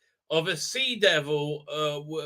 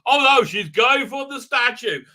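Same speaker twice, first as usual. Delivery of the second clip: raised, hammed-up East London voice; mock East London; 3 semitones higher, 5 dB louder than usual. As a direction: imitate an East London father in alarm. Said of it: "sound like they're from, like, East".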